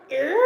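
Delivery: mouthed creaking-door noise; imitated door creak. Storyteller hears the roommate's door, imitated creak. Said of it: "we heard the door".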